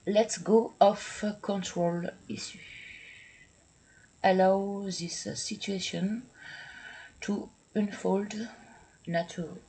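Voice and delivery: English read slowly with a heavy French accent; loud, slow English with French accent. Real, not acted. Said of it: "Pardon pour mon accent affreux".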